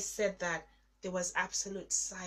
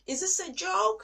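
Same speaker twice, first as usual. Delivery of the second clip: anguished cry; 11 semitones higher, 11 dB louder than usual. Retold or imitated. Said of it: "And I'm like".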